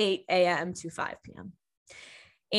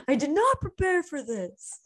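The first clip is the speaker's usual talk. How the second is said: laughing, pitched higher, overwhelmed; 7 semitones higher than usual. Real, not acted. Podcaster laughing at her own tears, higher and laughing. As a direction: laugh it out, caught off guard by feelings.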